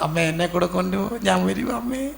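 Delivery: mildly mimicked child's whine, rising at the end; imitated crying child. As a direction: plead like a tearful child, lightly acted. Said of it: "കരഞ്ഞുകൊണ്ട്". (കരയുന്ന കുട്ടിയെ ചെറുതായി അനുകരിച്ച്)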